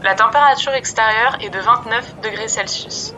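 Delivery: airline pilot on the intercom; calm captain cabin announcement. Acted. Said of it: "Ici votre commandant de bord".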